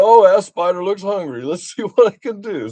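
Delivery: put-on high, playful talk to a child; playful excitement. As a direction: act out eager curiosity for a little kid. Retells coaxing his young granddaughter.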